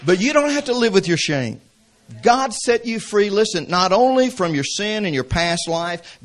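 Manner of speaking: fervent preaching voice. Acted. Pastor preaching to his congregation, fervent. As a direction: preach it with rising passion to the church.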